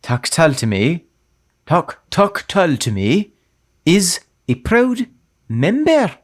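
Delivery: slow, lightly Irish Liam Neeson read; a hint of Liam Neeson's Irish, drawn out. Told to think of Liam Neeson, light Irish accent. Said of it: "think about Liam Neeson".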